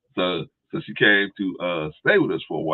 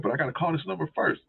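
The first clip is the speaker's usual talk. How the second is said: higher mock voice; imitating sister; 8 semitones higher, 4 dB quieter than usual. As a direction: lift the pitch for the sister's line. Sister, quoted.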